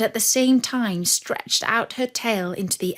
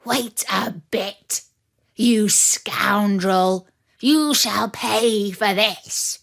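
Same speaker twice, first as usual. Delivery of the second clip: threatening wolf; slower than usual. Acted. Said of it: "he cried out to the dog".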